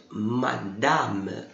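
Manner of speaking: "madame." with both A's said wide open; teacher models the open A in "madame." for the class. Shown as a demonstration. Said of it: "Bem aberto".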